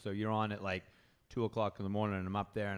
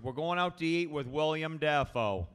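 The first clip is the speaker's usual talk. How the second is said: raised, louder hint of a proud father; mildly put-on dad voice, higher and louder; lightly imitated dad; 5 semitones higher, 5 dB louder than usual. Dad tells son about dinner plans, lightly imitated. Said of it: "He goes".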